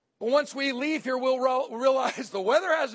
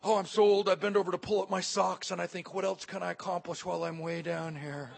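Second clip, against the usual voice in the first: low, sagging mock moan; self-pitying complaint; 4 semitones lower than usual. Aging man bending to his socks, mock self-pity. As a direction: grumble wearily, sinking lower to the end. Acts out victim mentality about aging.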